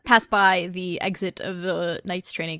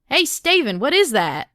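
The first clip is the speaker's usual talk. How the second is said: put-on Southern accent; 6 semitones higher, 8 dB louder, faster than usual. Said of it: "all of the knights are Southern now".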